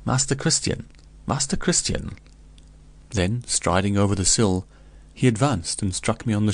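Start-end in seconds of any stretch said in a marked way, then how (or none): 0.0-2.2 calling the name again higher, rising; louder call. A narrator's reading. Toubac calls to the dazed Christian, a touch louder. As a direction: repeat the name to wake him from a daze. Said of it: "repeated in a louder voice".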